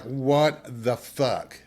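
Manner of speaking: slow, drawn-out what the fuck; stunned disbelief. Retold or imitated. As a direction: let each word land in disbelief. Reacting to his lame apology.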